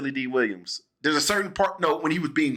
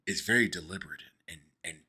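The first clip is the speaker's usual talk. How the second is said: much lower, softer Mid-Atlantic voice; lowered mock Mid-Atlantic drone; Mid-Atlantic accent; 11 semitones lower, 9 dB quieter than usual. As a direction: keep up the old-movie Mid-Atlantic accent as a joke. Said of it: "I'ma need you to stop doing that".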